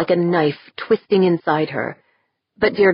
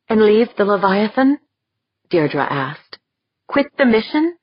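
dismayed disbelief; 7 semitones higher than usual. Acted. Shocked at turning back.

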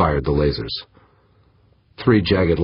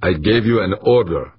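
higher, sharp rebuke; snapped order; 5 semitones higher, 4 dB louder than usual. A narrator's reading. Commander rebukes the protesting weapons tech, snapped order. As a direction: snap at a disobedient subordinate. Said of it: "Harbin snapped".

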